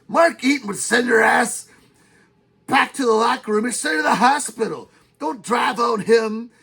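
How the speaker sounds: loud heated rant; worked-up rant. Real, not acted. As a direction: get carried away yelling. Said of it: "you got a little out of control".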